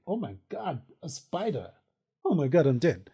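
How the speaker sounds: high, startled yelps; real spider fright. Real, not acted. Sees a spider now.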